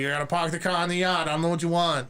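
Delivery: a touch of mock Boston; lightly put-on New England accent. Host listing American regional types, light Boston accent. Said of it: "You got the boss".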